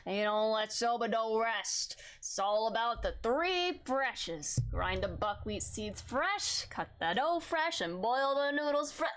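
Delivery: put-on slow, slurred drunk character voice. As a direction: read it like a tipsy old master. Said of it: "Do you want me to do the drunk voice?".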